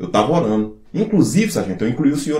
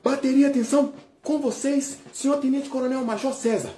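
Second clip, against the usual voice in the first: ceremonial announcer; 7 semitones higher, 4 dB quieter than usual. Acted.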